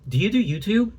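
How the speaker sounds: a mocking put-on fan asking. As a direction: ask it like a wide-eyed stranger.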